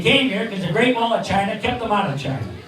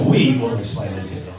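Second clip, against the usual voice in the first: lisping boxer voice; 11 semitones lower than usual. Retold or imitated. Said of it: "You notice I said".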